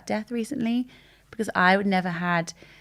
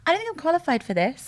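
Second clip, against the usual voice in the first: mock overwhelmed; 8 semitones higher than usual. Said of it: "I say it to my friends".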